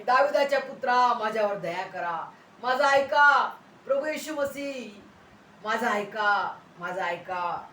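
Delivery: loud pleading call that fades; imitated crying out. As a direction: call out for mercy, imitating a blind beggar. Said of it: "त्यांनी आरोळी मारण्यास सुरुवात केली". (आर्त हाक, हळूहळू मंदावणारी)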